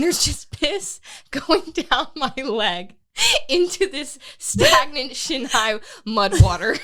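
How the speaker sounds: slow, giggling through the words; laughing. Real, not acted. Laughing while telling friends the gross race story. Retelling peeing in mud, laughing.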